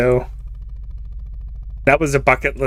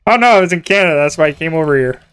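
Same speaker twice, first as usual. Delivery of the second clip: mock excuse; 4 semitones higher, 4 dB louder, faster than usual. Mock excuse to Canadian police.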